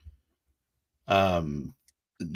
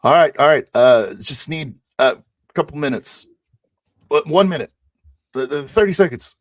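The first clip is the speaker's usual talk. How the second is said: loud, high, flustered reply; shouting back; 8 semitones higher, 10 dB louder than usual. Acted. Crewmate tending the wounded answers the pilot, shouting back. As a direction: call back hurriedly, bargaining for time.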